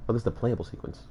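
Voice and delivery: normal talking voice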